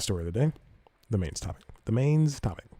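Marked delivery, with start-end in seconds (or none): 1.8-2.7 higher-pitched repeat of the segment title; playful re-announcement. Real, not acted. Podcast host re-announcing his last segment, playfully higher. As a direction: punch it up higher, like a jingle tag.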